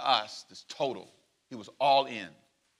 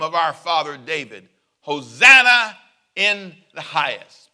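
loud, slow, jubilant Hosanna cry; preacher voicing the crowd's joyful shout, loud and slow; 9 dB louder than usual. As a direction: shout it like a cheering crowd on the road. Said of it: "followed shouted".

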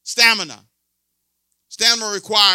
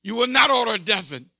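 scolding himself. Retold or imitated. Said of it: "I say".

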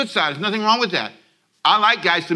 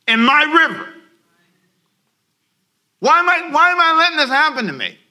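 crying out inside; 11 semitones higher, 6 dB louder than usual. Retold or imitated. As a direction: shout the realization at yourself. Voicing a self-realization.

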